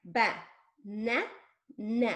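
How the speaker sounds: BA... NA... NA as three separate beats; touch and say. Shown as a demonstration. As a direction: pause after each of BA, NA, NA. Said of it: "let's touch and say".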